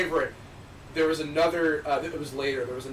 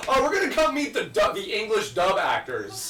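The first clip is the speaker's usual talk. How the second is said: mock excited sarcasm; 7 semitones higher, 4 dB louder than usual. Mocking creators visiting dub.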